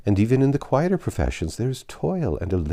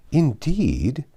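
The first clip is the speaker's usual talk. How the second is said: a surprised "Indeed?" lifted high; 驚いて問い返す; 7 semitones higher than usual. A narrator's reading. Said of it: "with a look of surprise".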